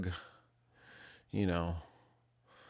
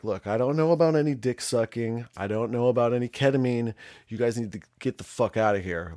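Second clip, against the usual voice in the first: retold fed-up order, slightly raised; firm annoyance; 3 semitones higher, 4 dB louder than usual. Host telling visitors to get out, firm annoyance. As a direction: lay down the law, mildly heated.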